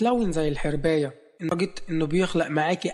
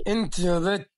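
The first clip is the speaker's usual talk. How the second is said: shout. A narrator's reading. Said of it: "لما صرخ عليها كده".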